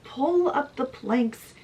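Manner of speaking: high, mildly frantic command; yelled order. Acted. Murderer telling officers where to look, mildly frantic yell. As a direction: call it out high, urgency easing slightly. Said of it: "he just yells out".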